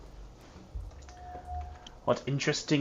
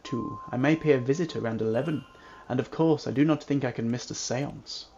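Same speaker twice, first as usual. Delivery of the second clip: formal reading. Acted. Reading the character's dialogue lines.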